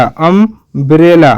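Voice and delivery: "अम्ब्रेला" slowly, split as अम-ब्रेला; broken into parts. Shown as a demonstration. Teacher showing learners the first sound, अम्ब्रेला split slowly.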